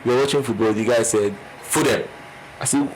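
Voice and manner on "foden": "Foden" said "foo-dem", falling at the end; imitated funny accent. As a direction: mimic his regional way of saying "Foden". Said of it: "the way he was sounding".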